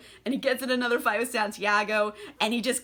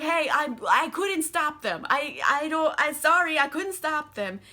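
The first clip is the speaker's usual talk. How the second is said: higher-pitched, stumbling excuse; mock apologetic; 5 semitones higher than usual. Armand following Louis to excuse himself, mock apologetic. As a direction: plead helplessness with false starts.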